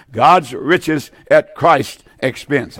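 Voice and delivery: very slow, each word weighed; slow, deliberate teaching delivery; slow, spelled-out definition. Shown as a demonstration. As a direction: dictate it slowly so they can note it. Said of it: "That's what grace is".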